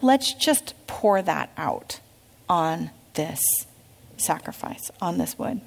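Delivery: slow, soft, falling to a whisper; hushed. Acted. Elijah ordering water poured, softly whispered. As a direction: hush it down to a breath.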